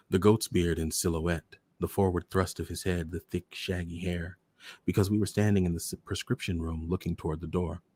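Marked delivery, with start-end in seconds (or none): none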